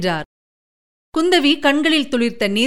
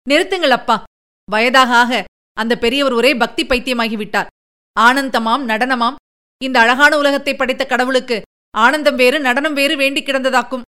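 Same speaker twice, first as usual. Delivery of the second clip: scornful retort. Acted. Kundavi scoffing at her father's talk of divine dance, scornful. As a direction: sneer at the old sage's devotion. Daughter mocks the devout sage.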